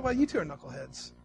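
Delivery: a fed-up God throwing up his hands; imitating an exasperated God scolding Abram and Sarah; voicing an angry God. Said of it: "I'd looked at Abram, I'd looked at Sarah and said".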